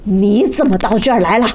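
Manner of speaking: angry question. Acted. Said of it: "茨瓦克曼怒气冲冲地说".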